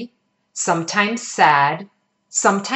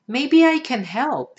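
kindly; 7 semitones higher than usual. Acted. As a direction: gently offer help to a hurt child. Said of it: "she said kindly".

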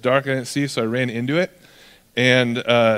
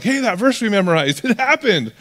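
mock amazement, climbing higher; excited disciples; 6 semitones higher than usual. Disciples realizing their memorized verse came true, excited. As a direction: imitate excited friends, pitch rising to the end.

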